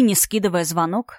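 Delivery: ordinary delivery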